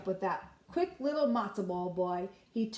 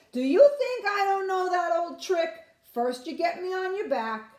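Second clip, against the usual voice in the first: put-on cocky boy; 9 semitones higher, 7 dB louder than usual. Boy scoffs at fox's trick.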